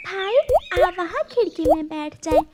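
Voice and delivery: big sister taking charge; caring big sister. Acted. Older sister bird to brother.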